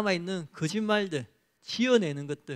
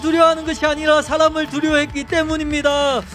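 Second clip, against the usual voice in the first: loud prayer building to a high, sustained cry; fervent prayer; 9 semitones higher, 12 dB louder than usual. Real, not acted. Pastor leading repentance prayer to God, loud and impassioned. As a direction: plead with God at full force, phrase endings held.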